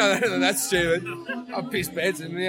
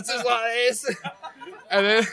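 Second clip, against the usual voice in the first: laughing; 6 semitones higher, slower than usual. Real, not acted. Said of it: "give us a demo".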